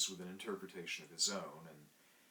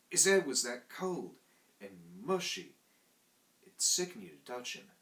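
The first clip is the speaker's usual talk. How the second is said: higher, louder Cockney manservant; Cockney servant telling a tale; 3 semitones higher, 5 dB louder than usual. Acted. Thomas telling the narrator about the night watchman, Cockney and indignant. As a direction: tell it like a proud London lad. Thomas tells his story.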